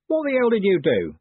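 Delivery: shocked at the damage; startled outrage. A narrator's reading. Man startled by the crash.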